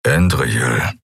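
deep grumbled name; lightly voiced gruff warrior; low grumble. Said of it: "brummte er".

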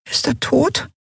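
tiny high squeak of a voice; squeaky. A narrator's reading. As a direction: pipe it up like a tiny fairy. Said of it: "piepste Nelen".

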